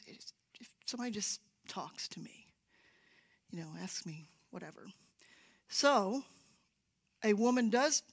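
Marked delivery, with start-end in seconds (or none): 0.1-4.9 whispered plea. Retold or imitated. Kevin's inner plea, whispered.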